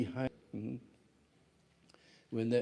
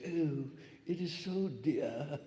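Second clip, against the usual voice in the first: put-on British accent; 4 semitones higher, slower than usual. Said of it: "the British, they say".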